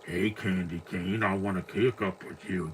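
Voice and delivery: a hint of the scary trucker on the CB radio; Ted Levine menace. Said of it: "Ted Levine's voice here is scary".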